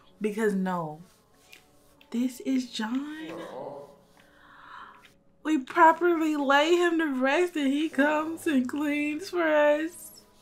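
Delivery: teary, choked-up voice. Cleaning up with others, moved to slight tears: teary, choked up. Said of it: "I really got like slight tears in my eyes".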